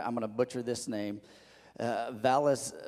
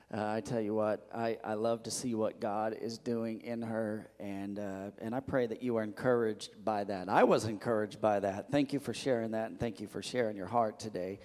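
teary, soft voice; choked up and quiet; after crying; 3 semitones lower, 4 dB quieter than usual. Real, not acted. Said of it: "got a little teary now".

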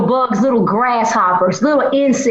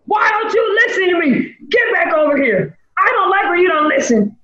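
harsh scolding; 4 semitones higher, faster than usual. Retold or imitated. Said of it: "people that do this".

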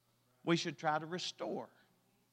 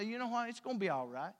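quiet reassurance; 6 dB quieter, faster than usual. Acted. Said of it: "I look at 'em and I say".

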